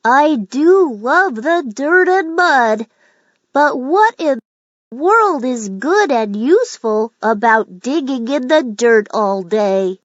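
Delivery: a lightly voiced worm, wistful and questioning; Ollie the earthworm. Ollie asks the road ahead what digging is good for, wistfully. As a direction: wonder aloud, a little frustrated. Worm wonders aloud at puddle.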